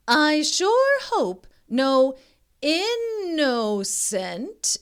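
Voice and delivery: high, slow villainous mama voice; scheming mama dinosaur. A narrator's reading. Mama Dinosaur plotting over an innocent child, scheming. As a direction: savour each word like a hungry villain.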